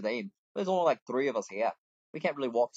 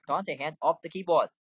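raised, louder, higher command; real scolding yell; 4 semitones higher, 6 dB louder, slower than usual. Real, not acted. Player scolding Dante off the keyboard, real yell. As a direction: yell it slowly and firmly to stop them. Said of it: "I don't wanna yell at you".

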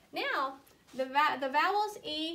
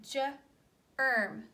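slowly sounded word. Shown as a demonstration. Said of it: "this is the word germ".

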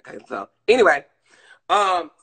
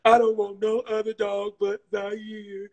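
higher-pitched mock mother's voice; imitated mom declaring her loyalty; imitating mama; 6 semitones higher, 4 dB louder than usual. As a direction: quote your mother in a raised, put-on voice. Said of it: "And she was like".

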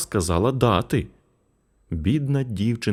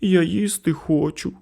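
put-on hungry boy; 11 semitones higher than usual. A narrator's reading.

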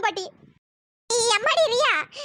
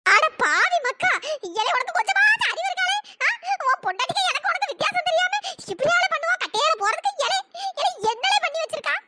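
put-on high old woman's scolding; a granny telling the boy off; 4 semitones higher than usual. Grandmother scolding grandson for his mistake.

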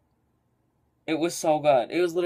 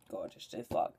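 whispered plug; 10 dB quieter, faster than usual. Real, not acted. Quiet plug.

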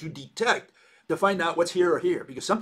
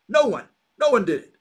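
mock shout; 6 semitones higher, 8 dB louder than usual. Cyclops answers the others, shouting.

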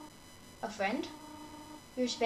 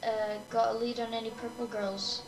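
police officer voice. Acted. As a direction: play the bored small-town cop shouting at a punk. Reading police officer lines.

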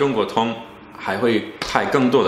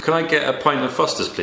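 'Can I' pitched up, falling towards 'Foster's'; demonstrated intonation; 4 semitones higher than usual. Shown as a demonstration. Learner ordering a pint for practice, falling tune to 'Foster's'. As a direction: start 'Can I get' high, then let it fall. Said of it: "你看看这个语调".

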